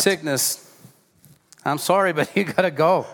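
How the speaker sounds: amused apologetic order; laughing mock command. Shown as a demonstration. Preacher jokingly dismissing a sickness, laughing. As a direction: laugh while telling it to leave. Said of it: "we command the sickness".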